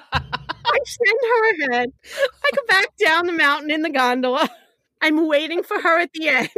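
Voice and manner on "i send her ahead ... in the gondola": laughing through tears. Real, not acted. Laughing at own cowardice.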